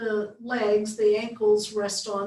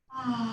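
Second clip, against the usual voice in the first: long sighing ah exhale; 4 dB quieter than usual. Shown as a demonstration. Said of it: "let's take it in again".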